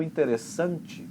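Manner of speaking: "interessante" with the force late, on SAN; Portuguese stress. Shown as a demonstration. Teacher contrasting Portuguese with English, stress near the end. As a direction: land the weight on SAN in "interessante". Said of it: "que eu peguei de exemplo".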